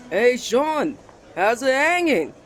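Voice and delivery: loud, high call across the room; loud greeting. Acted. Rival calling out to Sean, loud and cocky. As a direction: shout a cocky hello to him.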